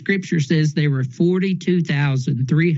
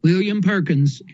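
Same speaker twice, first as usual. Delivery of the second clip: glitching audio; 3 semitones higher than usual. Real, not acted. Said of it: "You cut out again".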